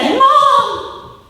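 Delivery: put-on high, hurried child's voice, upset; upset little girl. Mom retells daughter complaining about being teased, high upset child voice. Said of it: "she came home that night and she said".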